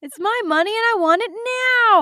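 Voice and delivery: high, sing-song commercial slogan. Pretend. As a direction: belt it like a TV ad. Quoting TV ad slogan.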